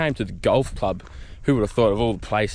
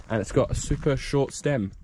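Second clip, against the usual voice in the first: sarcastic; 4 dB quieter than usual. Acted.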